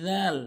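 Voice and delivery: রাল begun with a soft voiced th, as "dhaal"; tongue tip on the teeth to say রাল as "dhaal"; soft dh sound. Shown as a demonstration. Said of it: "একদম নরম করে".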